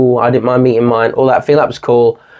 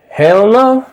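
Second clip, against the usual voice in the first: hammed-up scared exit; panicked refusal; 7 semitones higher than usual. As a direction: squeal a cowardly refusal. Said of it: "Is it".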